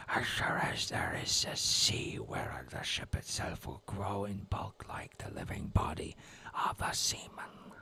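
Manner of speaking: slow whispered Dutch accent; old Dutch navigator, whispered. Shown as a demonstration. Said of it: "best Dutch accent I can".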